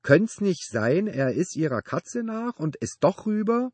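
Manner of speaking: very high, loud, strained question; desperate pleading. Acted. Neighbor hoping his dog chased the cat, desperate. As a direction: plead with pitch soaring.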